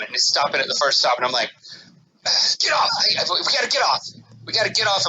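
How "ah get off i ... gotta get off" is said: urgent, rushed panic; panicked. Retold or imitated. Dad on the wrong tube telling family to get off, panicked. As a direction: blurt it out in a sudden panic. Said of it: "I'm, like, starting to panic".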